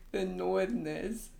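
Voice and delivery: mock Northerner accent, dropped r's. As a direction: draw it out slowly like a Game of Thrones Northerner. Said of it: "Is that how they say it?".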